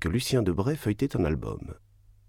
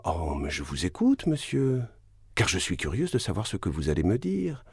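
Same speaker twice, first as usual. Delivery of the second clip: voix plus aiguë, ironie mordante; défi ironique; 6 semitones higher than usual. Acted. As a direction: prendre les messieurs à témoin avec sarcasme. La baronne défie son mari. (la baronne humilie son mari devant ses invités, voix plus aiguë et ironique)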